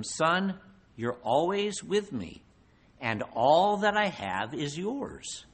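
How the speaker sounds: slow, tender reassurance; gentle father. Acted. Father reassuring his older son, slow and tender. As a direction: soothe the resentful son slowly.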